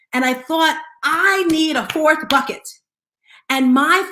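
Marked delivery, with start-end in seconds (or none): 1.0-2.7 louder, higher, slow declaration; sudden resolve. Retold or imitated. Speaker decides she needs time for family, slow emphatic resolve. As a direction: land it like a realisation.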